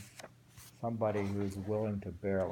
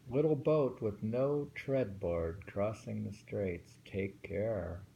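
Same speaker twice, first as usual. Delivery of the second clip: slow, careful haiku reading; poem reading; 4 dB louder, slower than usual. Acted. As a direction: take the lines slowly, warn on "Take care". Reads it again on request.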